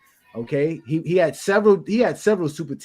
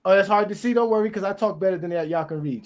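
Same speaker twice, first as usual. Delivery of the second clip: quick, run-together ribbing; talking too fast; 4 semitones higher than usual. Real, not acted. Host teasing co-hosts about their reading, talking too fast. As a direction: rattle it off without slowing. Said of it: "you talk too fast sometimes".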